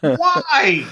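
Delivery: high, drawn-out wail of a question; high falling cry of mock dismay; mock disbelief. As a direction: wail it in exasperated bafflement. Mock outrage at movie line.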